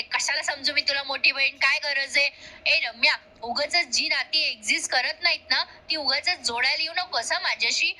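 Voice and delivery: imitating an annoyed rebuff, only lightly heated; mildly enraged retort. Kavya rejecting an offer of big-sisterhood, mildly indignant. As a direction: play a touch of indignation at unwanted closeness. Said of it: "Kavya अजून संतापते आणि म्हणते".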